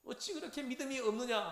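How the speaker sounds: questioning rebuke, falling at the end; imitated reproach. Teacher quoting Jesus to doubting disciples, mild reproach. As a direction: voice a dismayed master reproving followers. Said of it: "그렇게 책망을 한다는 거죠".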